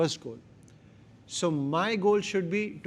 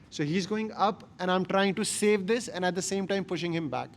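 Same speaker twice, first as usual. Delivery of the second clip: straining voice; 4 dB louder than usual. Real, not acted. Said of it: "you can match it with my voice".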